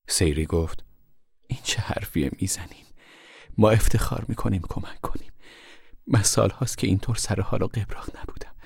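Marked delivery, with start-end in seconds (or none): 1.5-8.6 put-on a sick old woman, half whispered; faint whispery voice of an ailing woman; frail old woman. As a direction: voice Sairy as weak and worn, barely above a whisper. Sick Sairy reassures Ma.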